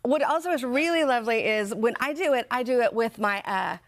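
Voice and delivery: talking around a pencil; pencil in teeth. Real, not acted. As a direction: speak with a pencil held in the mouth. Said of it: "you look great".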